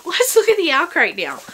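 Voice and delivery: giggling as she says it again; laughing retake. Shown as a demonstration.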